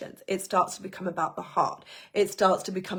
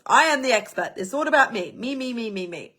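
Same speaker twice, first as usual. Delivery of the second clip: mock bold bragging; 3 semitones higher, faster than usual. The first line boasting to everyone, hammed-up bragging. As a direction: play the self-centred expert, all about me. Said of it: "It's, it's that boldness".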